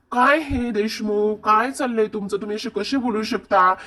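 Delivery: exasperated reproach. Retold or imitated. Wife reproaching her joking husband, exasperated. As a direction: act out a comically appalled wife. Kavya reproaches Parth in comic scene.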